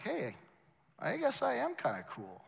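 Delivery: hushed mock vanity; self-satisfied musing. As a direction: muse it quietly to yourself, pleased. His smug private thought.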